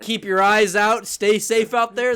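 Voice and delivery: hammed-up public safety warning; public PSA. Host parodying his own warning to everyone, mock PSA. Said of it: "like, a public P S A".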